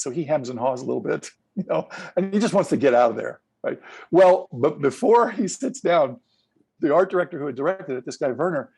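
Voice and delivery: ordinary talk, nothing marked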